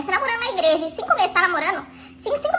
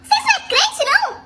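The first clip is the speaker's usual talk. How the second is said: outraged outburst; 7 semitones higher than usual. Retold or imitated. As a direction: blow up in disbelief. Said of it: "comecei a desembestar". (explosão indignada, mais alta)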